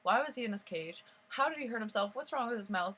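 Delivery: mildly agitated, retold bewilderment; confused questioning. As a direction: re-enact bewildered questions piling up. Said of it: "I was just confused".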